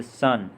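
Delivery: सन with a short अ, like "suh-n"; short A sound. Shown as a demonstration. Teacher showing O said as अ, short vowel in सन. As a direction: say सन with a brief "uh" vowel. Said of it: "ओ का उच्चारण अ की तरह".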